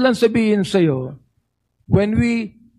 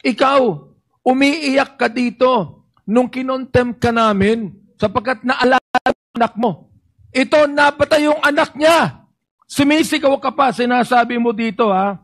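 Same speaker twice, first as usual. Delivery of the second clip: dynamic; 2 semitones higher than usual. Real, not acted. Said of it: "Hindi ako nagagalit sa'yo. Dynamic lang ako".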